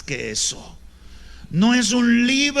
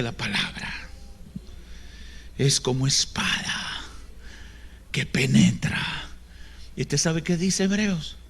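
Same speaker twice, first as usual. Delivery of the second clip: whispered scripture; 2 semitones lower, 7 dB quieter than usual. Acted. Preacher hushing the congregation into a whispered verse. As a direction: draw them in with a whisper.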